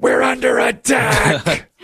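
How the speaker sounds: high, slow mock alarm; wife bolting upright in bed, mock-alarmed high voice. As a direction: ham up the wife's panicked warning. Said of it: "My wife turned to me and said".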